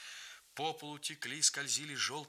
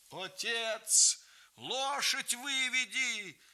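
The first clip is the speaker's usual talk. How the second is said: high, loud, coughing shout; hoarse shout; 9 semitones higher, 4 dB louder, much slower than usual. A narrator's reading. Grandmother ordering grandfather from the fire, hoarse. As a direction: shout it through the smoke. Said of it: "хрипя, кашляя, кричала она".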